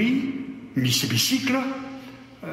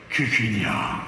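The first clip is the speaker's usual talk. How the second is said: long sigh; 4 semitones lower than usual. Acted. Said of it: "en poussant un long soupir".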